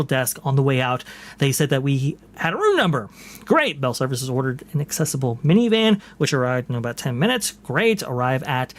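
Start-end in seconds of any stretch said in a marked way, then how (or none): 3.4-3.8 sarcastic high "great"; dry mock enthusiasm. Real, not acted. Sarcastic reaction to bad news. 7.6-8.0 sarcastic rising "great"; mock cheer, eye-roll tone. Real, not acted. Sarcastic reaction to bad news.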